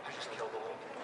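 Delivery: horrified. Retold or imitated. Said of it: "I'm like".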